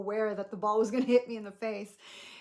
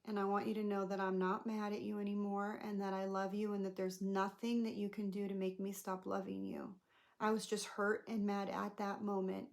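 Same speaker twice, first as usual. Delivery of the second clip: gentle reassurance; 4 dB quieter than usual. Retold or imitated. Reassuring the boy after upset.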